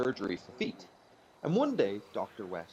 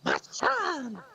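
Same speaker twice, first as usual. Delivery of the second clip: very high, slow, mournful moth; sad moth voice; 5 dB louder than usual. Acted. Moth complaining to the foot doctor, very high and mournful. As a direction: wail like a heartbroken moth. Moth character in told joke.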